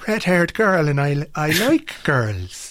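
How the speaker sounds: mock stage Irish, high and sing-song; bad Irish accent. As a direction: ham up a terrible film Irish accent. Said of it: "this thing has got a bad Irish accent".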